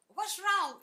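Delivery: high, loud shouted question; retold yell. Father yelling as he runs to the house, loud and high. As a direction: shout it from far across the field. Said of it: "and he was yelling".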